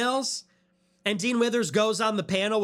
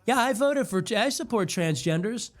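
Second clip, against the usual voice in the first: mock simp voice; 2 semitones higher than usual. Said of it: "and you're like".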